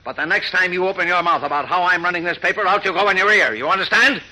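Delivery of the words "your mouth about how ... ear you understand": angry threat. Acted. Editor threatening rival, raised voice.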